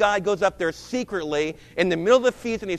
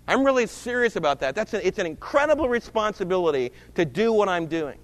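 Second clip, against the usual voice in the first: ordinary talk, nothing marked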